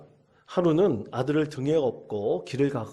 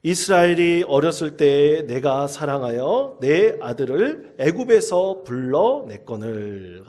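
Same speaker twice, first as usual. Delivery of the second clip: slow, louder reading aloud together; unison scripture reading; 7 dB louder, slower than usual. Real, not acted. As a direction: read it out with the whole congregation, slowly. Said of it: "우리 다 같이 한 목소리로 봉독하겠습니다".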